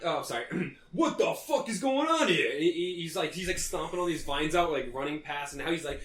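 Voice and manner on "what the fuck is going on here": high, bewildered yell; panicked outburst. Acted. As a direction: shout in confused alarm. NPC orc caught in vines.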